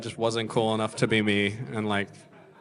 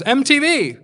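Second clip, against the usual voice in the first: retold shout; 10 semitones higher, 4 dB louder than usual. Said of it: "a guy just shouts at me".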